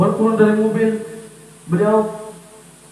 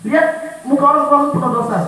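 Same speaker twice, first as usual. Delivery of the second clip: parent's plea, loud; 4 semitones higher, 5 dB louder than usual. Retold or imitated. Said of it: "ini pesan orang tua saya".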